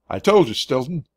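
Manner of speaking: irritated shriek. A narrator's reading. Annoyed ranger shrieking at the worried mouse. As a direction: snap it back in exasperation. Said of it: "he shrieked".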